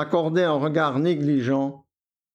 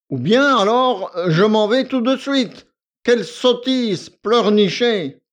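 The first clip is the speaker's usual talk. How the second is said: higher, louder, impatient reproach; irritated scolding; 4 semitones higher, 5 dB louder than usual. A narrator's reading. Victor scolding the weeping girl. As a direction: scold her for crying.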